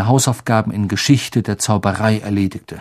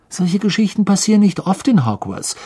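higher-pitched reassurance; reassuring; 8 semitones higher than usual. A narrator's reading. Ron assuring trembling Ginny it rarely happens, reassuring. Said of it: "versicherte ihr Ron".

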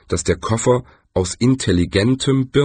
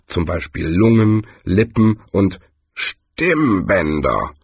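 lightly voiced tree. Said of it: "warf der Baum ein".

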